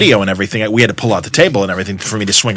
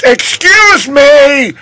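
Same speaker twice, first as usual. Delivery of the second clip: stern excuse me; 14 semitones higher, 3 dB louder, much slower than usual. Retold or imitated. Annoyed artist interrupts chatter.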